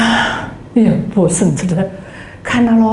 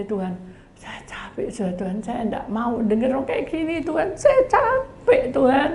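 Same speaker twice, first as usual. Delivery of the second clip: soft, then breaking into a high weeping plea; tearful cry to God; 4 semitones higher, 6 dB quieter than usual. Retold or imitated. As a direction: pour out exhaustion through tears. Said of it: "Saya teriak". (ratapan lelah sambil menangis)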